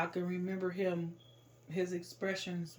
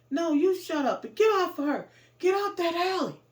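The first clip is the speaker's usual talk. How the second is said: loud, high retold shout; forceful, protective command at full voice; angry shouted order; 11 semitones higher, 10 dB louder than usual. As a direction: yell back to make the attacker stop. Man yells back to intervene.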